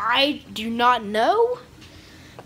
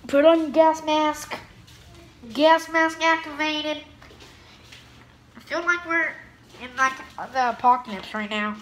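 muffled gas mask voice; through a gas mask; 3 semitones higher than usual. Pretend. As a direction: talk as if behind a mask. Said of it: "enough of that voice".

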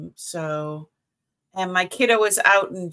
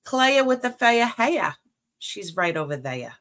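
put-on thick Boston accent. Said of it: "When we used to say things like".

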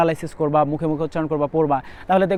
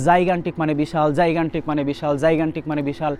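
"জাইগান্টিক মানে বিশাল" chanted three times, steady and even; repeated drill recitation. Shown as a demonstration. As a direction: drill it aloud, each repeat the same. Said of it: "আমি এখন যেরকম সাউন্ডে কথা বলছি".

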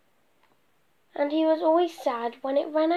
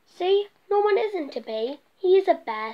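triumphant reveal; 5 semitones higher than usual. Acted. Amelia exposes Norman.

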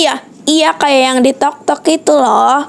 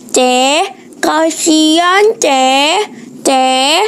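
imitating beggar; 3 semitones higher, much slower than usual. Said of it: "Ngomongnya kayak gini".

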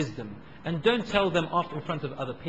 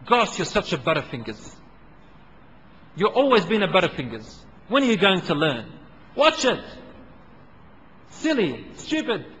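louder, harsh name-calling; mock scolding parent; 3 dB louder than usual. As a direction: berate the clumsy child. Parent insulting clumsy child.

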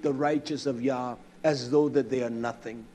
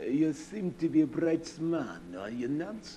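softer, sugary mock-polite flattery; butter him up with fake respect; lightly voiced sarcastic courtesy; mock politeness; 5 dB quieter than usual. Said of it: "I wanted to get up and say".

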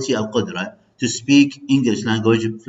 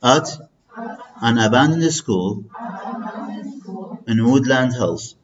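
slow read-aloud model; slower than usual. Shown as a demonstration. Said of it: "نقرأ سوية".

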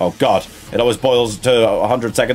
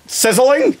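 high dog voice; 11 semitones higher, slower than usual. Acted. Dog character scolds.

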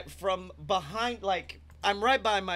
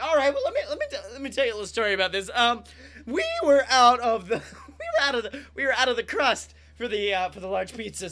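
laughing delivery guy; 4 semitones higher, 6 dB louder, faster than usual. Retold or imitated.

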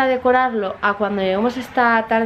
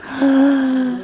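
giraffe noise. Pretend. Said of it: "¿cómo hace la jirafa?".

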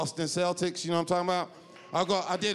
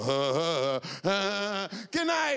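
mock comedian sign-off; 4 semitones higher, slower than usual. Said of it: "where they go".

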